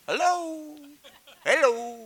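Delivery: high, loud "Hello?" to wake them; calling out. Real, not acted. Preacher to congregation, calling out loudly. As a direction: rouse the room, is anyone listening.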